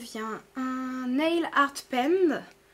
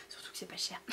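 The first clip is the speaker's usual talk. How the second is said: hushed, breathy aside about the price; whispered aside; 12 dB quieter, faster than usual. Real, not acted. Telling viewers in a whisper that it's not expensive. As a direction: drop to a conspiratorial whisper.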